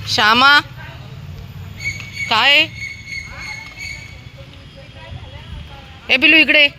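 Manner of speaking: very high, loud call. Real, not acted. Woman calling Babu and Shyama over, high loud call. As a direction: shout the dogs' names across the street.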